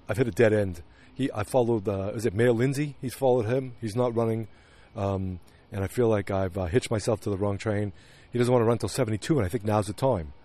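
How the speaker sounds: lightly voiced, subdued husband; mildly hammed impression of a downcast politician's aide; Henry Francis. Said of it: "This is my best Henry Francis yet".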